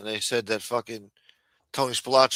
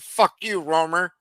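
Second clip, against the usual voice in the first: shouted, higher and louder; defiant retort; 7 semitones higher, 4 dB louder, slower than usual. Retold or imitated. Cornered mobster defying the FBI agent, loud defiant shout. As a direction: spit it back in defiance. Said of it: "turned around and said".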